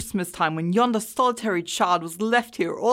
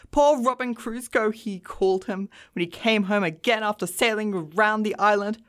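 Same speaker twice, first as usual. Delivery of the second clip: between laughing and crying; 3 semitones higher than usual. A narrator's reading. Scrooge acting out Robin Crusoe and Friday, excited. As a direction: relive the tale aloud, thrilled, calling out at the end. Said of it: "extraordinary voice between laughing and crying".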